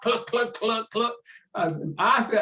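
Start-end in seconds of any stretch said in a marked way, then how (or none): 0.0-1.1 chicken clucks. Retold or imitated. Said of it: "called me chicken stock".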